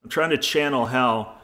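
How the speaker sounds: "I'm trying to channel how" breathed out through cigar smoke; exhaling smoke. Real, not acted. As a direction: speak while blowing out smoke. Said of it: "take a hit off my cigar".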